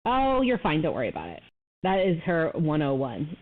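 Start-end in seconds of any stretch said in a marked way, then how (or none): 0.0-1.4 light imitation of a breezy mom; mom impression. Mimicking mom dismissing kids' injuries, lightly breezy. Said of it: "That is the Kathy Martinez".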